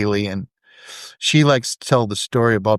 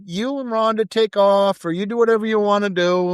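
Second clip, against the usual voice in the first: quoting Aldro; 9 semitones higher than usual. Retold or imitated. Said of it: "he'd say".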